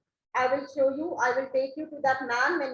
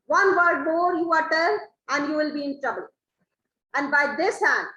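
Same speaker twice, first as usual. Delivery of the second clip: raised, warning voice; loud threat; 5 dB louder than usual. Acted. Stefano warning Trinculo to stop interrupting, loud threat. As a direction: bark the oath at the jester.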